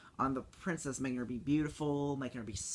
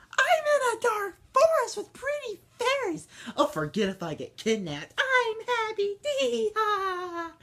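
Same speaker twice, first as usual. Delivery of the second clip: high, loud, ditzy mock princess; hammed-up carefree squeal, dragging "happy"; silly Aurora; 9 dB louder than usual. Kid mocking Aurora waking in a dark forest, high and loud. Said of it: "and she goes".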